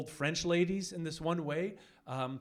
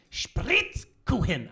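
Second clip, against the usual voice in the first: "Spritzkuchen" stretched slow and louder; mounting yell; 4 dB louder, much slower than usual. Retold or imitated. Baker yelling at comic, slow drawn-out louder annoyance. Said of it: "She's like".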